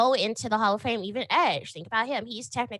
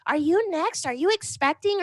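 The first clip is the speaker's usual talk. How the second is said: mock nosy fans; 7 semitones higher than usual. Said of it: "people were like".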